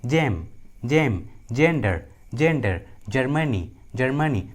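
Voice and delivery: "जेम, जेंडर, जर्मनी" slowly, each starting with j; G pronounced as j. Shown as a demonstration. Teacher giving examples of the G rule, slow j demonstration. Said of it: "जी का उच्चारण ज".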